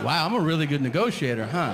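sarcastic pride at an easy win; smug self-praise. Retold or imitated. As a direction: boast mockingly. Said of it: "I was like".

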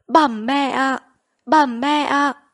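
high, urgent call to mother; anguished calling. A narrator's reading. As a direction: call out to a mother slipping away. Family call out to dying mother. (gọi mẹ thảng thốt, giọng cao)

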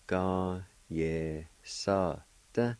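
"Ga, ye, sa, da" each syllable set apart. Shown as a demonstration. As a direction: break "Ga, ye, sa, da" into clear syllables. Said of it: "It's pronounced like this".

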